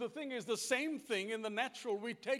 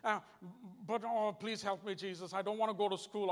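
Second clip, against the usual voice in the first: wife praying to herself. Retold or imitated. Preacher mimics his wife talking to Jesus, lightly voiced grumbling prayer. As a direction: imitate a casual private grumble to God. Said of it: "she'll be talking like this".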